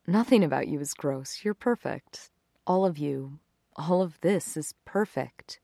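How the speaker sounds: soft, intimate and sincere; hushed adoration, slowing at the end; tender reassurance. Acted. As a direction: reassure a self-conscious lover gently. He reassures his self-conscious girlfriend.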